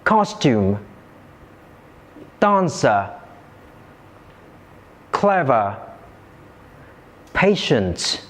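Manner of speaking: "Costume, dancer, clever, patient", each stressed on its first syllable; "Costume, dancer, clever, patient", spaced out, each falling after the first syllable. Shown as a demonstration. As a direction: model for repeating, strong starts on "Costume, dancer, clever, patient". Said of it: "usually placed on the first syllable".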